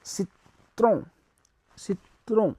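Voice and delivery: citron said see-tro, nasal ending; French citron. Shown as a demonstration. Teacher drilling students on citron. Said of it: "we will say".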